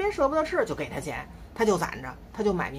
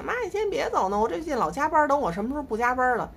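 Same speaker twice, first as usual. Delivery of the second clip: son pleading; 5 semitones higher than usual. Retold or imitated. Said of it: "他昨天还求我呢".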